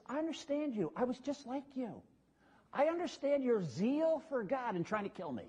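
soft, sincere reassurance to a hostile crowd; Paul gently telling the angry crowd he understands them; tender Paul. Retold or imitated. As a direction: speak gently, as if calming men who want you dead. Paul's gentle words to hostile crowd.

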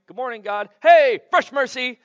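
high, excited morning hello; cheerful wake-up greeting. Pretend. Preacher acting out greeting God at dawn, bright and excited. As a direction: greet the new day like a kid.

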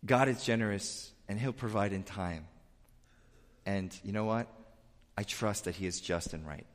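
a humble believer's soft assurance; quiet trust. Retold or imitated. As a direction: say it gently, settled in trust. Humble person trusting God.

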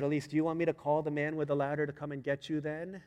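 mildly exasperated parent's question; retold fed-up dad, lightly done; frustrated. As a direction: press a stubborn child with a touch of frustration. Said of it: "So I was getting frustrated".

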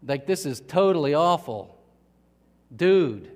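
California dude mildly freaking out; Doctor Cool. Acted. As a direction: play a dude in a mild panic. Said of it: "Doctor Cool says".

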